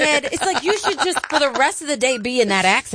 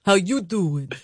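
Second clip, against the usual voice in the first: lightly put-on Jersey Italian accent; a hint of Jersey Shore Italian; 4 semitones lower, slower than usual. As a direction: try a Jersey Shore greeting. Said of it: "trying to really pull in Jersey Shore".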